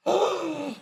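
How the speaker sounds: very high shocked "Oh"; a startled squeak of an "Oh"; retold shock. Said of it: "I'm looking and going".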